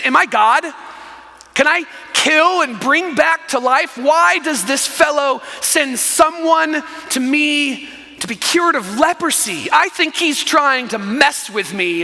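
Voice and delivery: mildly exasperated, incredulous questions; retold outburst with drawn-out, indignant words; frustrated king. King of Israel balking at a letter asking for a cure, frustrated. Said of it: "He's so frustrated".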